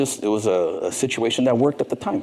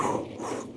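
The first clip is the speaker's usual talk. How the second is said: relieved whistle; 11 dB quieter than usual. Retold or imitated. Relief after dodging question.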